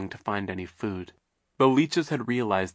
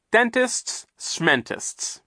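dismissive; 13 semitones higher, much slower than usual. Shown as a demonstration. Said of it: "one way to demonstrate".

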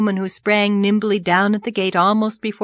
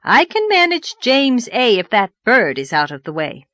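loud, gleeful assurance; jubilant confidence; 3 semitones higher, 5 dB louder than usual. Acted. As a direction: crow it with confidence. Jubilant lady departs.

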